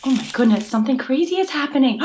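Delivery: hammed-up urgent discovery; pretend alarm. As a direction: play up the sudden alarm for children. Pretend discovery on jungle trail.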